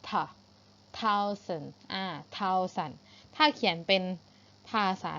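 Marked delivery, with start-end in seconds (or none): 0.1-0.1 TH alone, tongue between the teeth; isolated th sound. Shown as a demonstration. Teacher showing pupils the tongue position, isolated th. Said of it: "แล้วออกเสียง th". 1.0-1.7 THOUSAND slowly, in two syllables from a th; tongue-between-teeth th. Shown as a demonstration. Teacher demonstrating th to pupils, careful pronunciation. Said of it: "ให้อยู่ระหว่างฟันบนและฟันล่างนะคะ".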